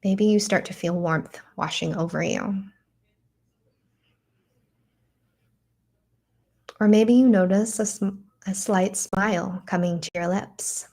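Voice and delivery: unhurried guiding voice with long pauses; guided meditation. Acted. Teacher guiding listeners into breath and a loving memory, guided meditation. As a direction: lead them gently through it, leaving room to breathe.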